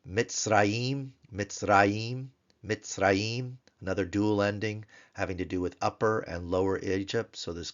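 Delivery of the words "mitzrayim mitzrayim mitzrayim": Mitzrayim with a held final m; Mitzrayim, stress on RA; teacher modelling Mitzrayim; Hebrew Mitzrayim. Shown as a demonstration. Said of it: "How about Egypt?".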